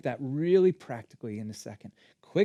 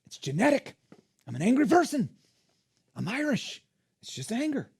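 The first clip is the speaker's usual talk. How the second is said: high-pitched imitation of a protester; playful whine of self-justification; mock excuses; 6 semitones higher than usual. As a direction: make each excuse a short, separate mock protest. Voices listeners making excuses.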